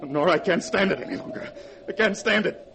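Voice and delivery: strained near breaking; he can't stand it anymore; desperate. Acted. Husband breaking down.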